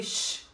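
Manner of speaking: long hushing "shh"; dismissive hush; sharp shush. Retold or imitated. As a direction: cut her off with a shush. Shushes the girl in retold quarrel.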